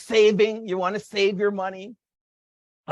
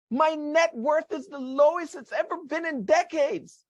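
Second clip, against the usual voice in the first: anxious inner voice; 5 semitones higher than usual. Retold or imitated. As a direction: panicky worried voice, higher pitched. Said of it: "This is the ego talking".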